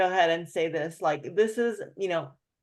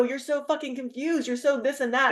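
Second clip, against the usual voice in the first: higher, echoing his exasperation; mirroring his words; 6 semitones higher than usual. Retold or imitated. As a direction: repeat it back like him. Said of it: "I go".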